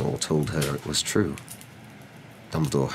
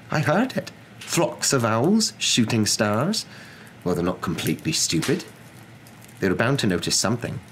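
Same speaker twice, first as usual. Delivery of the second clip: indignant professor; 6 semitones higher than usual. Acted. Professor keeps complaining in story.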